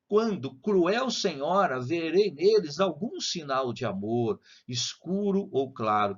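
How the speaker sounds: slow, measured recital of the verse; slow reading. Shown as a demonstration. Teacher rereading the verse to students, slowly. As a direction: savor the line slowly for the class. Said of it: "vou ler devagar".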